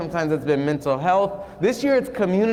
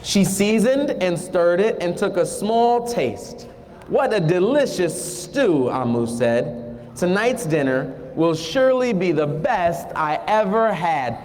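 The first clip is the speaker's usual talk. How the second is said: slow, storybook read-aloud; unhurried picture-book narration; reading to children; slower than usual. Acted. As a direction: draw the kids into the story, slowly.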